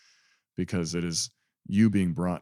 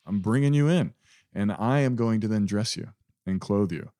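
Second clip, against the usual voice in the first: a touch raised and louder, eager welcome; lightly voiced Jesus inviting; 3 semitones higher, 4 dB louder than usual. Jesus calling the beggar in, rising eager invitation. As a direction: offer the feast gladly, voice lifting. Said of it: "That's this message from this parable".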